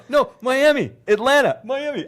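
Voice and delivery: high, laughing back and forth; laughing argument. Retold or imitated. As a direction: argue through laughter. Arguing while laughing.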